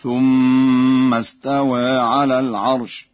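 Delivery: استوى with the final alif leaning toward e, slow; taqlil. Shown as a demonstration. Teacher demonstrating Warsh taqlil to students. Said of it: "بتقليل الألف".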